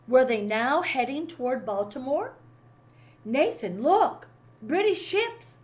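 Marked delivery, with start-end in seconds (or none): 3.3-5.6 urgent call across the water, high and loud. A narrator's reading. Boy calling his brother about warships, alarmed shout. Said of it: "Jed called out".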